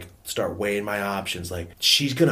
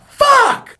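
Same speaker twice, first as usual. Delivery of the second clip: high, explosive mock scream; frustrated yell; 12 dB louder than usual. Gifted kid learning the bad news, frustrated yell. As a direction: let the curse burst out at full volume.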